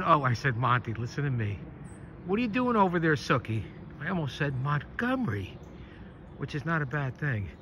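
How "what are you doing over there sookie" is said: raised voice calling across the yard; calling the dog. Real, not acted. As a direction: call out to the distant dog.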